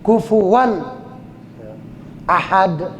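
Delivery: "kufuwan" with distinct final n, then "ahad"; unblended n before AHAD; clear izhar. Shown as a demonstration. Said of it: "dibaca izhar".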